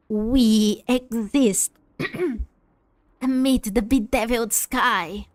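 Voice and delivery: slow, menacing evil villain. Acted. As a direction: growl it out like an unhinged villain. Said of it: "I can't do the evil voice anymore".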